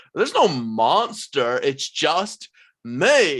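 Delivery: high swooping voice, "me" stretched out. Voicing the family's most notorious figure greeting the players: Grievous character voice. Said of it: "looks at you and goes".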